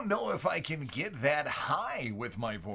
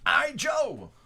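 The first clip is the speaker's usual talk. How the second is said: a touch of the borrowed voice; 11 semitones higher, 7 dB louder, slower than usual. Pretend. Announcing the card in voice.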